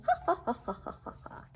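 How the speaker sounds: big playful laugh fading to breath; lion laughing. Acted. The lion laughing instead of roaring. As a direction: roar with laughter. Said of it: "here he is saying".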